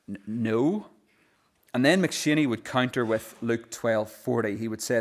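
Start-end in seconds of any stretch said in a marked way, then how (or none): 0.1-0.9 mildly sheepish, hesitant stammer; sheepish reply. Retold or imitated. Ministers answering the minister's question, sheepishly. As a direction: give a small, tentative answer with a stumbled start. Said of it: "respond quietly and sort of sheepishly say".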